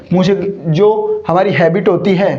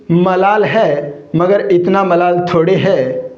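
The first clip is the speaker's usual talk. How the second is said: slow recited couplet. Acted. Teacher recites Parveen Shakir's sher to his students, slow and measured. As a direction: recite the sher slowly, savouring each line. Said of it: "Parveen Shakir साहिबा का भी वो शेर है ना".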